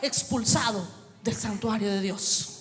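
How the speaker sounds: driving, emphatic preaching; prédica enérgica. Real, not acted. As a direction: build it phrase on phrase like a preacher. Predica a plena fuerza. (prédica enérgica, frase tras frase con insistencia)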